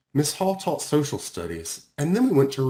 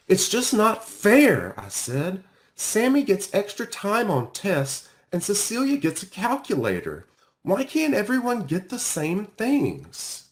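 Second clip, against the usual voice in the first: upset protest; 8 semitones higher, 3 dB louder than usual. Acted. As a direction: plead it's not fair, voice rising. Child protests unfairness to counselor.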